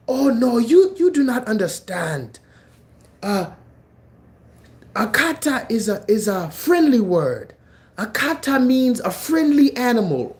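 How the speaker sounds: high, put-on voice of a backpedalling guy; mock defensive dude. Quoting the dude who claims kata is a friendly word, mocking. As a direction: play a weaselly guy over-explaining. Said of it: "the dude was like".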